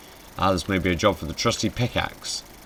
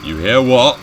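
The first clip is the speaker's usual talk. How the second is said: higher, much louder incredulous question; louder repeat; 6 semitones higher, 11 dB louder than usual. Real, not acted. Startled player asking what is heard, louder repeat. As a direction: ask it loudly, pitched up.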